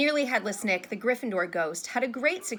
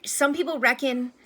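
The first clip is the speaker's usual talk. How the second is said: higher, louder hesitant opener; 5 semitones higher, 6 dB louder than usual. A narrator's reading. Harry raising a rumor with his teacher, hesitant. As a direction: start a risky thought and break off. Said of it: "Harry hesitated".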